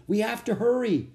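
put-on high, pressing child's voice; urgent. A narrator's reading. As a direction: press them to get moving. Girl urges haste to save Camelot.

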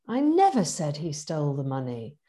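said given the weight; stress on SAID. Shown as a demonstration. Coaching demo of one sentence, stress on said. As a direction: push the word said. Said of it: "them teaching us this on the coaching course".

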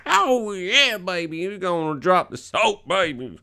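high, hammed-up seductive voice; mock sexy voice. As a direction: camp it up, teasing. Mocking steamy shower scene.

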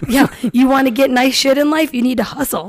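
loud, high-pitched tough-love pep talk; fired-up shouted life advice; yelling. Real, not acted. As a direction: yell it like a hard truth, amused. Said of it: "I was yelling".

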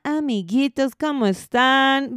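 cute anime streamer. Acted. Anime-style greeting opening the show.

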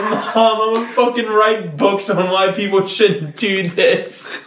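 high, overwrought wailing promise; mock sobbing vow. Son vowing to his mom, high mock sobbing wail.

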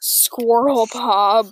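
"Squirrelpaw" dragged out very slowly with a weary groan; groaning inwardly. Acted. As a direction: sigh "Squirrelpaw" out, fed up. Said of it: "Brambleclaw groaned inwardly".

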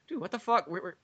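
rising to a high, fast indignant yell; exasperated outburst. Retold or imitated. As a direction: go from muttered disbelief to a burst. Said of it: "And it's like".

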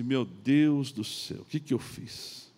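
slow, low retold dismay; stunned dismay. Retelling his shock after crash. (espanto lento e contido)

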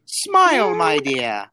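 radio host demon voice; smooth old radio announcer; Alastor voice. Retold or imitated. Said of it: "I could actually do an Alistair voice".

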